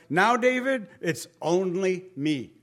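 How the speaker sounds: God gently addressing David, starting high; lightly voiced God. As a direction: lightly act God getting through to David. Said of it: "God is saying".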